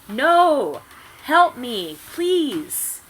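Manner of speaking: high, loud hammed-up plea; overacted terrified victim; mock terrified scream. A narrator's reading. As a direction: shriek for help theatrically. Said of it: "Brittany screamed terrifiedly".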